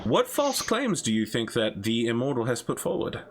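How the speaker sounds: lightly voiced talk show host; upbeat broadcast host voice. Hosts the in-game show.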